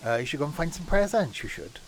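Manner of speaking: mock Welsh accent, lightly done; a playful hint of a Welsh lilt. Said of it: "I could have done a Welsh accent".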